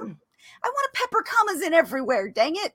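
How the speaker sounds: high-pitched mock petulance; playful protest. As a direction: protest like a thwarted comma lover. Mock protest about loving commas.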